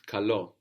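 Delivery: Καλό said ka-LO, stress on the last syllable; teacher models Καλό slowly, stress at the end; model Greek word. Shown as a demonstration. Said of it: "We had καλό".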